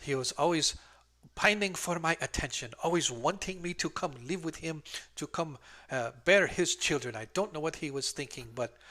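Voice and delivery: a hint of a flushed, flustered old woman; flustered old lady. Old midwife talks about the dwarf, mildly flustered. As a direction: fuss over the silly dwarf, a little embarrassed. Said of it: "gets a little flushed and flustered".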